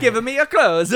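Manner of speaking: lightly put-on Italian accent; mock demand in Italian accent; movie-line voice. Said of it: "do movie lines in a voice".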